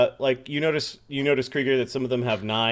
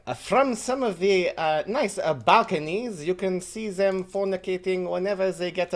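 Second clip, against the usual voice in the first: put-on light French accent, higher and delighted on oh and goody; French host gossiping gleefully; 6 semitones higher than usual. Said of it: "trying to figure out his accent".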